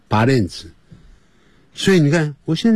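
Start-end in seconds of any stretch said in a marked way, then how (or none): 0.1-0.6 "parents" the Japanese way; Japanese-accented English. Retold or imitated. Teacher mimicking how Japanese people read it, Japanese-accented "parents". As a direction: imitate a Japanese speaker saying "parents". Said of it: "学日本人的念法".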